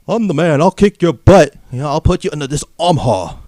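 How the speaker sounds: loud mock Irish boasting; bad Irish accent. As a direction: taunt in a terrible Irish accent. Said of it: "I can't do an Irish accent".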